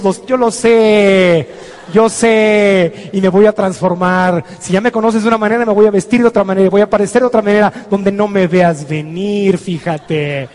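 sneering little voice, dragging out phrase endings; taunting inner voice. Acted. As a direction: play the nagging fear that mocks and threatens. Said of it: "la vocecita va a decir".

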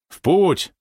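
triumphant high call; solemn shout. A narrator's reading. Man in funny cap orders the ship off, solemn shout. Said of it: "торжественно крикнул".

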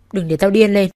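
loud menacing growl; snarling warning; angry threat. Acted. Brother-in-law threatens her.

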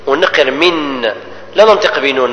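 normal talking voice

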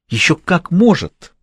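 sting him where it hurts; angry retort. Acted. Angry mistress taunting her lover about the old man, spiteful. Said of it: "разозлилась Изольда".

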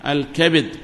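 الكبد as "al-kabid"; short a then short i in الكبد; third dialect form. Shown as a demonstration. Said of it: "هذه ثلاث لغات".

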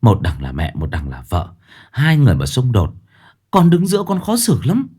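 gentle advice. Acted. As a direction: speak gently, caught in the middle. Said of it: "góp ý nhẹ nhàng".

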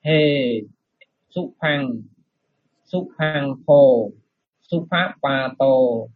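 slow, careful recitation; model reading. Shown as a demonstration. Monk demonstrating the verse for students, slow recitation. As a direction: spell out each Pali syllable slowly. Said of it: "Rồi lần nữa ha".

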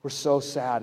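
slow, mildly hammed-up moping; mock complaining. Disciples grumbling to Jesus on the road, mock complaining. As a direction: draw out a mock complaint, slowly. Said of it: "they're, they're complaining".

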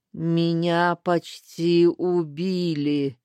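put-on slow rasping old hag voice; hoarse old crone. Старуха хрипит Лестеру в ответ, медленно и сипло. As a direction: croak it out like a dying crone. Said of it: "прохрипела старуха".

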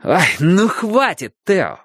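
slow squeaky mocking falsetto; shrill camp pantomime dame. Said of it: "добавил он уже нормальным голосом".

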